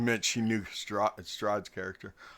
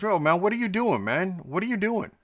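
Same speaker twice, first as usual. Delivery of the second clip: imitating a rapper; 8 semitones higher than usual. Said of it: "and Snoop goes".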